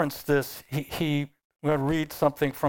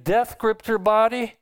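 incredulous reaction; 5 semitones higher than usual. Acted. Acts own startled reaction to story.

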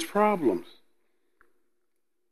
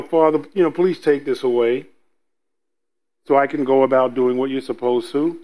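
pleading prayer; 6 semitones lower than usual. Retold or imitated. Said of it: "He wasn't talking calmly".

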